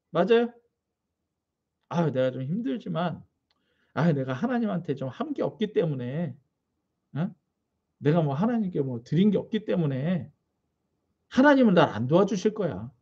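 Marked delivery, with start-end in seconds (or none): 1.9-12.9 lower, softer sighing worry; a hint of a sheepish believer, low and soft; timid self-talk. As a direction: mutter it like someone ashamed to ask.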